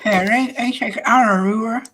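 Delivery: talking around a pin held in the lips; pin in mouth. Real, not acted. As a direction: mumble with a pin between the lips. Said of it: "I got a pin in my mouth".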